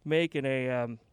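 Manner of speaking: breathless, catching breath between words. Real, not acted. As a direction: talk while still panting a little. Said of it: "sorry if I'm out of breath".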